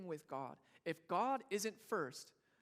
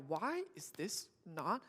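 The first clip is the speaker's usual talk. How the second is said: frustrated; much slower than usual. Retold or imitated. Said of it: "little frustrated where they're like".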